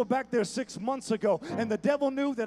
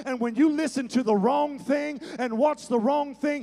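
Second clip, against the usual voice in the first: building intensity; 2 semitones higher, 4 dB louder than usual. Acted. Building preaching.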